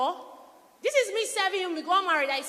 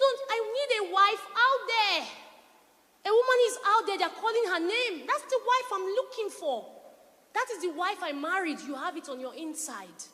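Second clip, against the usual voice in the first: husband's voice; 3 semitones higher than usual. Retold or imitated. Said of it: "He said".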